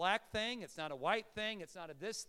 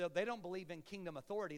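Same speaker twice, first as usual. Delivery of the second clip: authority said with a t, no th, in a light Irish lilt; mock Irish: dropping the h in authority; Irish dropped H; faster than usual. Pastor imitating the Irish he heard, light Irish accent. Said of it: "they don't pronounce, uh, their H sounds".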